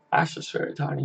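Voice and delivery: whispered encouragement under the breath. Real, not acted. Streamer quietly cheering on Tony from chat, whispered.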